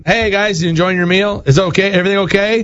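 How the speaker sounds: breezy check-in with rising questions; imitating friendly waiter. Waiter walking up to diners mid-meal, friendly imitation. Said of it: "Whereas if you walk up".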